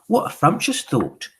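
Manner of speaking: high-pitched witches' exclamation; witches crying out. A narrator's reading. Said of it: "cried the witches".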